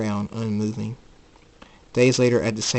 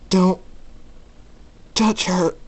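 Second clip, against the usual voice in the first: higher, halting warning; firm warning; 8 semitones higher, slower than usual. Acted. Night Storm defending the girl, tense warning. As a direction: warn them off, word by word.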